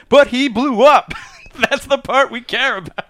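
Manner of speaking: high, shouted mock objection; exasperated retold yell; Roman's loud protest. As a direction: argue back at full pitch, hammed up.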